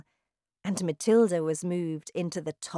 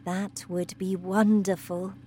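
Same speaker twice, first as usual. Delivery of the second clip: softly. Acted. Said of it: "said Miss Honey softly".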